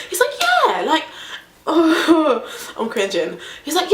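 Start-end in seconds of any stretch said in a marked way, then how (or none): 0.4-2.5 higher, knowing voice; pressing the point; imitating the driver.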